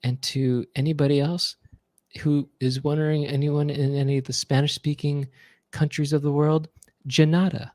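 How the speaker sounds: thanking the troops in a gentle star voice; mock Jackson message. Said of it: "he goes like this".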